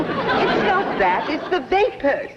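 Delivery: high, slow weepy whimper; tearful. Acted. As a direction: whimper it through tears. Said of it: "got you to bawling like that".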